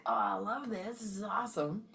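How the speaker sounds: lightly lifted, happy gush. Shown as a demonstration. Contrasting love with hate for the class, light happy lift. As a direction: brighten up, it's awesome. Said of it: "is a higher frequency than".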